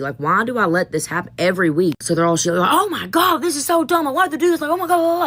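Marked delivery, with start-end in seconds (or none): 2.7-5.2 put-on high, whiny teen complaining; hammed-up imitation of students griping, pitched high; whiny students mocked. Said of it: "like, yelling at me".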